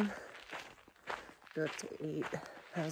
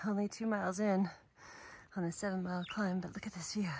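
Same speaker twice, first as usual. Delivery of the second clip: whispering; 5 dB quieter than usual. Real, not acted. Hiking vlog, whispered aside.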